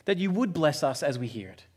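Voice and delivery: hushed, reverent opening prayer. Acted. Pastor praying before the sermon, hushed and reverent.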